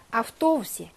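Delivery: 아프토우시 with a long, stressed 토. Shown as a demonstration. Teacher marking stress for students, 아프토우시 stressed on 토. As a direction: lean on the 토 in 아프토우시. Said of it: "강세 있습니다".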